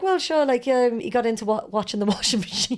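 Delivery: high, laughing Cork Irish lilt; quoting Rog in Cork accent. Retold or imitated. Retelling Rog's funny excuse to a friend, Cork accent through laughter. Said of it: "he was very off the cuff funny like this".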